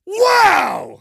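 over-the-top bombastic excitement, very loud, very high. Reading out what someone wrote, bombastic enthusiastic 'wow'. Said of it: "that's how I'm going to say it because I have to put at least some bombastic enthusiasm".

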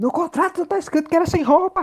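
very high, desperate, panicked shrieking yell. Playing a desperate character fleeing an android, character shouting in panic. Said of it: "E aí eu grito".

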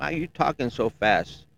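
scolding, chewing-out tone. Retelling how the wife scolds about talking fast: imitating wife scolding. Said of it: "My wife chews me out all the time".

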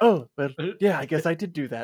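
mock nonchalant tone. Retelling a movie villain's reply to an accusation: imitating an offhand afterthought. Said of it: "it's like a complete afterthought".

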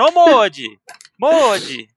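play-acted, loud calling-out shout. Retelling how they called someone back while gathering foam, retelling a shout. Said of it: "eu gritando".

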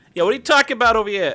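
loud, high-pitched, inaccurate Boston accent. Asked to try a Boston accent, giving it a best attempt: attempted Boston accent. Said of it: "I'm gonna try my best to do a boss accent".

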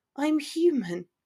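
hushed whisper. She answers his taunt about Gryffindors being indestructible; whispering quietly. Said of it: "she whispered quietly".

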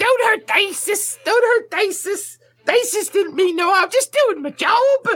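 very high, frantic, panicked goblin screeching. Voicing a dangling goblin begging not to be hurt: goblin screaming in panic.

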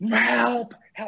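put-on hoarse yell. Retelling how a woman with a dog yelled for help, retelling a yell for help. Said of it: "she's yelling for help".

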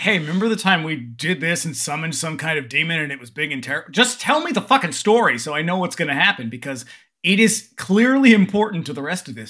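ordinary talk

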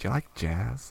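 put-on soft, sexy American accent. Retelling the opener line used on people, in a sexy american accent. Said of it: "was that a sexy American accent".

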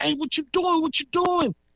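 play-acted, very high-pitched hollered call. Retelling hollering at her from the open sliding door: retelling a holler. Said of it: "I'm hollering at her".

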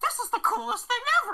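very high, full-on cartoon voice. Retelling own words as a four-year-old about the car: Mickey Mouse voice. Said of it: "Was that Mickey Mouse, like, full on?".

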